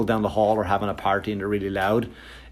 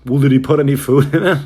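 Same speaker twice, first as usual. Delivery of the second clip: accusing question; 3 semitones higher, 7 dB louder, faster than usual. Retold or imitated. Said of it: "the guy in the other end goes".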